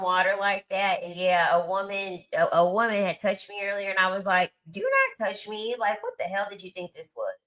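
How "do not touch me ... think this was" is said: retold indignant rebuke. Retold rebuke to a woman touching her.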